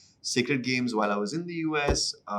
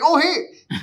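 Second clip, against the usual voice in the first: very high, loud retold hey; squeaky-high mock greeting; awkward greeting; 9 dB louder than usual. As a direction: imitate an over-eager awkward hello. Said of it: "all these awkward run-ins".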